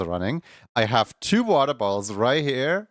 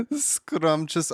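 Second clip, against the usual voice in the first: much higher, laughing scrumptious; 5 semitones higher than usual. Shown as a demonstration. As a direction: say scrumptious through a high laugh. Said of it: "Please use the word scrumptious".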